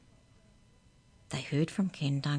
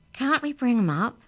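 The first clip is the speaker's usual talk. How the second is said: higher, louder insistent demand; 7 semitones higher, 6 dB louder than usual. Acted. Amy demands of the class, higher and louder. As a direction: push hard for an answer. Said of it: "Amy demanded".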